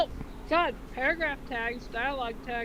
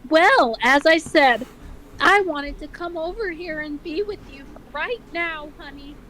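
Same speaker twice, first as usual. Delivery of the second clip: tense mother voice; 5 semitones higher, 7 dB louder than usual. Acted. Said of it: "replies a little tensely".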